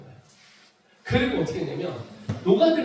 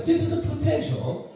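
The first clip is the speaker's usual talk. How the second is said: American teacher; much slower than usual. Retold or imitated. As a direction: spell it out like a teacher at a blackboard. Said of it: "칠판에서 이렇게". (높고 느린 미국 영어 선생님 흉내)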